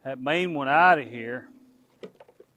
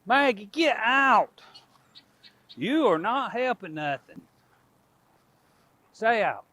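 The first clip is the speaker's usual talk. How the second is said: firm call to dog; 7 semitones higher than usual. Real, not acted. Shooing the dog from pen.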